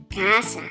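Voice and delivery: casa said slowly, KAH-sah; Spanish word. Shown as a demonstration. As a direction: model casa for kids to repeat. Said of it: "Let's say the word for house together".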